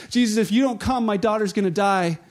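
fervent pleading. Retold or imitated. Father begs Jesus for his dying daughter, fervent pleading. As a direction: lean into it like a desperate father begging. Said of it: "he pleads fervently with Jesus".

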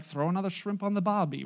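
lightly mimicked Australian accent. Teasing friends back from Australia, mock Australian accent. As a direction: put on a hint of an Australian twang. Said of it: "with an Australian accent".

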